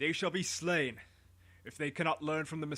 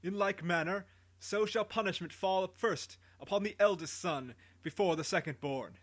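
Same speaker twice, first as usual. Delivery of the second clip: higher, louder royal sentence; booming voice; 4 semitones higher, 3 dB louder than usual. Acted. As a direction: pronounce the death sentence to the people. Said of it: "in a great booming voice".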